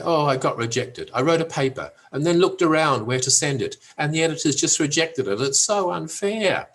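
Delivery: mock-wounded complaint, pitch climbing; hammed-up self-pity; tearful complaint. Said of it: "Tears are rolling down their cheeks".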